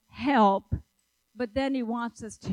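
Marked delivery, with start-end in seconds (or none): 0.1-0.8 yelled cry. Shown as a demonstration. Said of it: "God wants us to yell".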